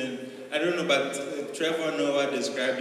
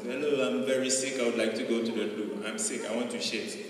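lightly put-on British accent, understated; mock British villain stating it plainly; matter-of-fact British accent. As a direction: deliver it as a very matter-of-fact Brit. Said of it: "It sounds as a matter of fact".

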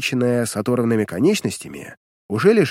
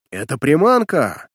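warning; 2 semitones higher, 3 dB louder, slower than usual. Acted. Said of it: "предупреждающе произнёс штурман".

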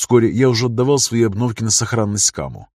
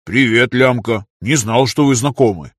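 drawn-out, cheery greeting; lightly voiced friendly workman; smiling Monya; 4 dB louder than usual. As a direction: greet them slowly with a smile. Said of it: "выдал Моня с улыбкой".

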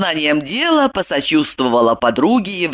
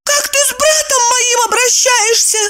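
put-on high indignant girl's voice. A narrator's reading. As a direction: jump in high and outraged. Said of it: "подпрыгнула Евдокия".

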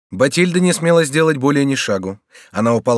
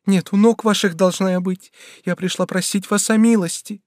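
a higher, lightly voiced young girl begging; young woman pleading; 8 semitones higher than usual. Bathilde kneels before the regent, begging, lightly voiced higher. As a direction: plead on your knees, voice lifted.

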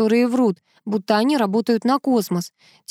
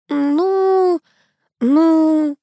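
mumbling; 8 semitones higher, 4 dB louder than usual. A narrator's reading. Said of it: "забормотал Сеня".

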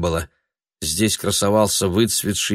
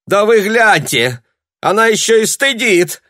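high, loud scolding yell; piercing shout; 13 semitones higher, 7 dB louder than usual. A narrator's reading. Sharp-nosed woman yells at Tanya, piercing. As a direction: screech it at the crowd. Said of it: "пронзительно закричала востроносая женщина".

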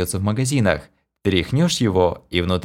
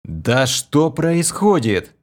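alarmed question; 6 semitones higher, much slower than usual. A narrator's reading. Hero alarmed.

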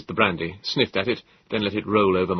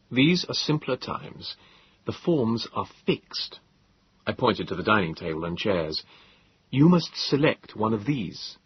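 slow, patient explaining. Acted. Narrator explains to Morlock.

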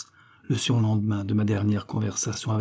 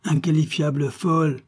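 higher, spat out in contempt; furious insult; 6 semitones higher than usual. Acted. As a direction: fling the insult at her rival. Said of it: "hurla ma compagne". (insulte furieuse et méprisante)

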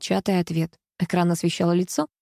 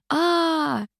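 yell of delight; 9 semitones higher than usual. A narrator's reading. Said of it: "я заорал во всё горло".

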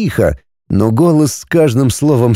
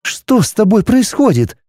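higher, reproachful woman's voice; wife confronting her husband, indignant; wife Arani, rising anger; 9 semitones higher than usual. A narrator's reading. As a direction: press him harder with each question.

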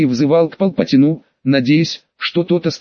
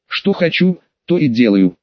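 put-on drunken defiant slur; tipsy and cocky, hiccuping; drunk with hiccups. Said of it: "пьяно икнул Сириус, вызывающе глядя". (пьяно и вызывающе)

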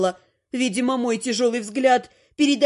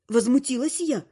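plain reading voice

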